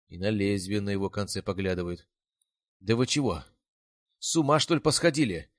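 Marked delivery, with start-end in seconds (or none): 2.8-5.5 loud, high outraged shout; snapping angrily. A narrator's reading. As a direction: lash out at them, loud and high. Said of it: "вызверился на нас Рябой".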